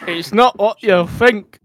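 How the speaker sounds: loud, slow mock-drunk protest; drunken slur. A narrator's reading. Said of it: "all cross-eyed with drink and slurred".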